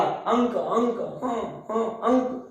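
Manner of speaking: अंक and हाँ drawn out with a clear nasal; अंक with the nasal flowing into क, no extra ण; correct nasal demonstration. Shown as a demonstration. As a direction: slowly model the nasal in अंक, word by word. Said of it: "इसका मैं उच्चारण करूं".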